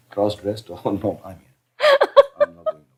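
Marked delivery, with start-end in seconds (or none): 1.4-2.8 words breaking into laughter; laughing. Real, not acted. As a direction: laugh through it, high and giggly. Laughing after cross-dressed joke.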